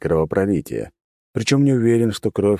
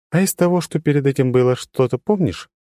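high, level, unchanging tone; monotone girl; 8 semitones higher than usual. A narrator's reading. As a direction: say it with no inflection. Трила speaks.

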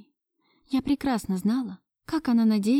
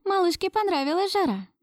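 a touch of cooing, higher; lightly cooing; 10 semitones higher than usual. A narrator's reading. Ksyusha lightly coos over the baby. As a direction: coo it gently to the baby. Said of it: "проворковала Ксюша".

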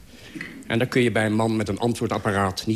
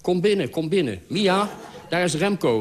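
suddenly hearty, higher calls toward Mia; calling out; 7 semitones higher than usual. A narrator's reading. Friend calls to his wife that Remco is here, sudden forced cheer. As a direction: boom out the welcome, covering the awkwardness. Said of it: "riep hij nu".

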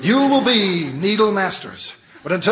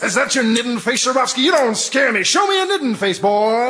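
drill sergeant; 4 semitones higher than usual. Acted.

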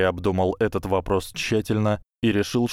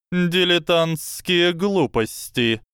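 high, slow scoffing snake; scornful serpent hiss; 10 semitones higher, 3 dB louder, slower than usual. Acted. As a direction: sneer it like a serpent.

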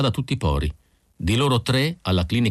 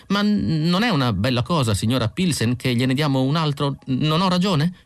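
higher, flustered clinic driver; nervous Isidor; 7 semitones higher than usual. A narrator's reading. Isidor breaking the news to Mrs Pilsen, higher and flustered. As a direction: blurt it out, a bit panicky.

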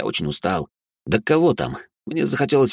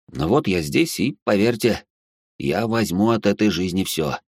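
plain reading voice

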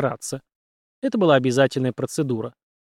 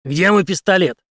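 louder, higher, stress on мой; demanding; 5 semitones higher, 5 dB louder than usual. A narrator's reading. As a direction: bark the question. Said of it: "спросил". (Генри громко требует пистолет)

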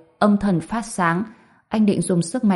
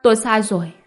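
tearful; 4 semitones higher, faster than usual. A narrator's reading. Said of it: "Hoàng Thiên Cầm khóc lóc".

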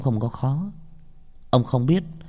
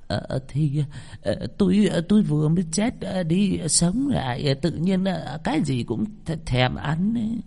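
put-on much higher, stammering old woman voice; halting, caught out; 7 semitones higher than usual. Possessed grandmother caught out at dinner, high stammering excuse. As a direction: stall and fumble for an excuse. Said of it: "Bà hai khựng lại".

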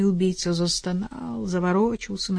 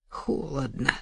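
flat detached; 4 semitones lower, 6 dB quieter, slower than usual. Acted. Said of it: "безучастно сказала".

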